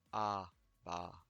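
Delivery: "Abara" slowly, b for v, Korean r. Shown as a demonstration. Teacher showing how Koreans say Avala. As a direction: draw out "Abara" like a Korean speaker. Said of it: "le V qui, euh, devient un B".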